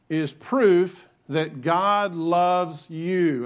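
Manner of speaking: "you" set apart as if in capital letters; slow, deliberate build to a weighty "you"; stress on "you". Real, not acted. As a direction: lean hard on "you", drawing it out. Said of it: "put you in capital letters".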